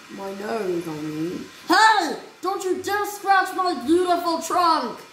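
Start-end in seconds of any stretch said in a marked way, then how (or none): 1.7-5.0 indignant yell. Acted. Elephant warns duck off her trunk, indignant yell. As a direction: bark a warning at them. Scolding the scratcher.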